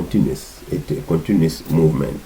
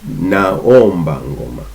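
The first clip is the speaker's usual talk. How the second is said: slow teaching demo; 2 semitones lower, slower than usual. Shown as a demonstration. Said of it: "We say".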